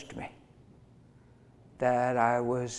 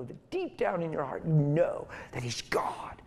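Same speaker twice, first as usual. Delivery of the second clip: hushed, unvoiced whisper; breathy sermon whisper; 2 semitones higher than usual. Real, not acted. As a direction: lean in and whisper it like a secret. Preacher drops to whisper.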